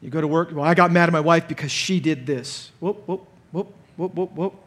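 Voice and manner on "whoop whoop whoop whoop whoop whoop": mock alarm. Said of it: "we're done, we've gone wrong".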